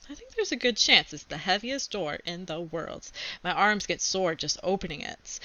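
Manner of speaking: put-on reading a chapter book aloud to kids; steady read-aloud storytelling; story narration. A narrator's reading. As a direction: tell it like a kid's diary read to class.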